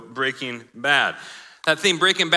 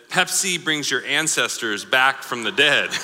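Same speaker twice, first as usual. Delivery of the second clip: laughing. Real, not acted. Reading funny mistranslated ad.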